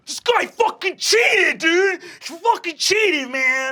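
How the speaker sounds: an enraged half-orc shouting cheat; furious shout. Acted. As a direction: scream the accusation at the coach. Half-orc accuses angrily.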